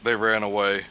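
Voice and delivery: very low, dramatic TV narrator voice; a deep mock true-crime announcer.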